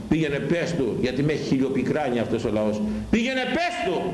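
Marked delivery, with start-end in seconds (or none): 3.1-4.1 high, slow divine command. Acted. Voices God commanding prophet.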